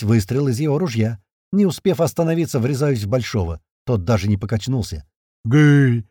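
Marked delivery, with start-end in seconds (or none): 5.4-6.0 loud pleased roar; a happy battle roar. A narrator's reading. The big one roaring pleased at the narrator. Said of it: "раздался довольный рык".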